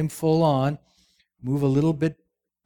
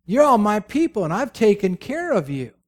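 Saul boasting; 3 semitones higher than usual. Acted. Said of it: "he said".

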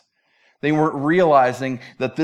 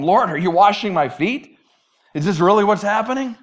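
higher, astonished question; incredulous question; 4 semitones higher, 4 dB louder than usual. Acted. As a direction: ask it in acted disbelief. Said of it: "In the Greek, it's even more emphatic".

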